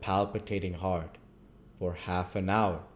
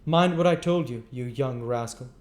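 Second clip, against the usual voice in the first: high, loud beadle threat; low voice; 6 semitones higher, 7 dB louder than usual. A narrator's reading. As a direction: growl the warning as a mock aside. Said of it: "added in a low voice".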